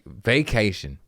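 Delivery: vacation said vay-KAY-shun, clear long a. Shown as a demonstration. Comic correcting vocation to vacation, clearly. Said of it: "not vocation".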